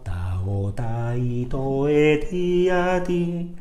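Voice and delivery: "ta, o" then "ta, i", slurred in twos; tongue one, slur the next vowel; paired slur syllables. Shown as a demonstration. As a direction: slurs in pairs. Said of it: "ligadas de dos en dos".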